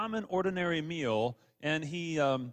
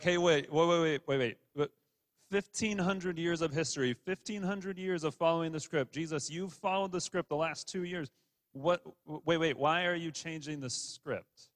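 flustered protest. Retold or imitated. Disciples protest to Jesus, in mock flustered alarm. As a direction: stop him mid-sentence in mock alarm. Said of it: "they're just like".

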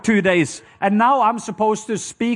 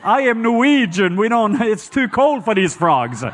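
1 mock exasperation; 4 semitones higher, slower than usual. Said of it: "And I'm like".

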